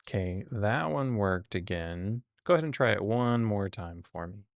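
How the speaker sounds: weary patient helpdesk tone; tech support voice. Real, not acted. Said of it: "My tech support voice just came out".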